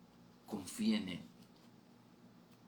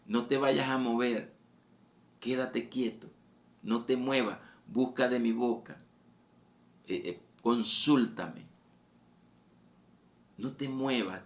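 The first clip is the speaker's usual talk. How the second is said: higher and louder, the Lord commanding; God calling out; 4 semitones higher, 4 dB louder than usual. Acted. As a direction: call it out as a firm divine order. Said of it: "Te lo dice a voces". (la voz del Señor a voces, más aguda y fuerte)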